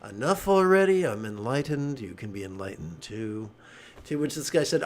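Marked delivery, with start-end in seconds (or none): 0.1-3.5 mock-weary Buddha in a Jewish accent; light Jewish accent, exasperated then settling. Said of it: "I'm gonna say this with a Jewish accent".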